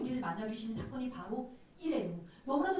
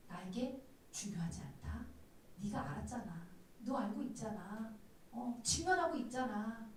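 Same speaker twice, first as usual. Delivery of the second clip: soft, lowered, gentle assurance; the Lord reassuring; 7 dB quieter than usual. Retold or imitated. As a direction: voice God gently to the listener. (주님처럼 낮추어 부드럽게 다독이듯)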